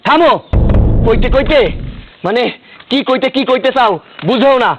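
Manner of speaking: angry interruption. Acted. Husband stops wife mid quarrel.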